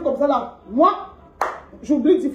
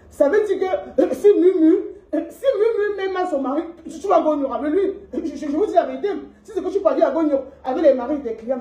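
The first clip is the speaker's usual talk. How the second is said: laughing while ranting, half crying; disbelieving laughter in a rant; laughing indignation. Real, not acted. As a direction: giggle through the outrage.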